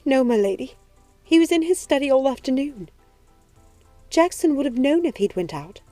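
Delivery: grief-stricken, quavering servant; shaking with tears. A narrator's reading. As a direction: answer the lady through tears. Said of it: "she said, shaking with tears".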